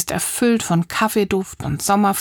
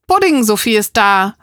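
louder, delighted call; glad loud call; 5 dB louder than usual. Acted. Marie announcing Sophie's arrival, gladly calling. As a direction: call out happily across the garden. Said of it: "ruft Marie laut, erfreut".

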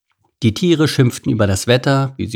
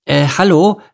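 higher, louder hesitant call; small Ede speaking up; timid hello; 7 semitones higher, 6 dB louder than usual. A narrator's reading. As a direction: try to get her attention. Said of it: "meldete sich Ede zu Wort".

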